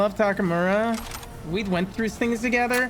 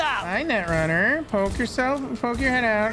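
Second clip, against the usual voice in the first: teasing taunt; 4 semitones higher than usual. Pretend. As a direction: coax him out like a playful tease. Taunting enemy to peek out.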